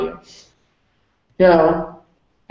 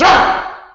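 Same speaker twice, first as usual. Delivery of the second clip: mock bear growl; 5 dB louder than usual. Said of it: "the bear goes".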